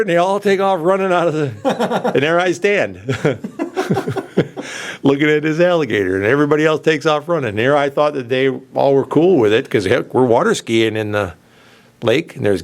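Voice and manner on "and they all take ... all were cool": laughing while talking. Real, not acted. Laughing through the gator story.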